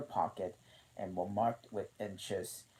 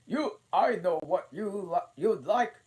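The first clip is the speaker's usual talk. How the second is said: good-naturedly; 11 semitones higher, 10 dB louder than usual. A narrator's reading. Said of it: "good-naturedly".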